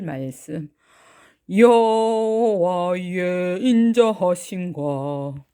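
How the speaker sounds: put-on slow, suave young man; 느릿하게 멋 부린 청년처럼; 멋진 청년 목소리. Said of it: "멋진, 아, 청년 목소리로". (느리고 멋있게 뽐내는 청년 목소리)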